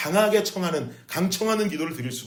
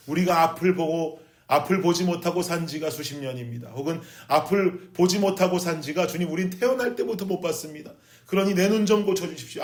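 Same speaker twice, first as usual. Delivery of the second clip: shouting plea; 3 semitones higher than usual. Retold or imitated. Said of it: "막 소리쳤을 거예요".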